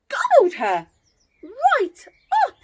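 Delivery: loud, high, punchy gobble; dramatic. A narrator's reading. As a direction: slam down the climax. Climax of the wolf eating.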